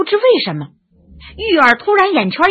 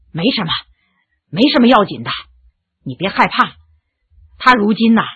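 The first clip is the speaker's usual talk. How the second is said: reassuring; 3 semitones lower than usual. Acted. Reassuring frightened Yu'er.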